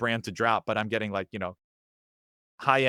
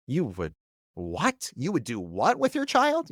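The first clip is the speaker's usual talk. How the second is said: incredulous; slower than usual. Retold or imitated. Shocked friend reacting to parenting choice.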